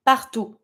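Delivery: PARTOUT ending on an "oo" sound, no T; silent final T. Shown as a demonstration. Teacher demonstrating the French for everywhere, silent final T. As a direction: say "partout" with the last T left silent. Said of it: "You don't pronounce the last T".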